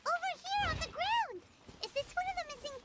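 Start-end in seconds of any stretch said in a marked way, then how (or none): 0.1-1.4 louder, higher call across the ground; urgent call to companions. Acted. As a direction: shout to the others to come look. Calling companions to a find.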